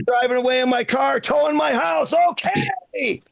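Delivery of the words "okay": squeaky okay. Acted. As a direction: squeak the word out way up high. Punchline about bride towing his house.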